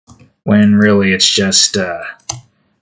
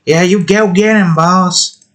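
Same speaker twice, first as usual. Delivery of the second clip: higher hype-man voice, eager to please; eager goon; 7 semitones higher than usual. Acted. Goon hyping up the snake boss, higher. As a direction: cheer on the boss like a happy henchman. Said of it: "the goon that just looks happy to be there".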